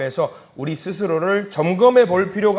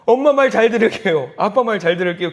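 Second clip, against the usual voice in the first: loud pleading promise, higher at first; panicked child; 5 semitones higher, 6 dB louder than usual. Acted. Terrified child promising parents to obey, mock panic. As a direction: beg like a scared kid, acted. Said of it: "그 아이가 기겁을 해가지고".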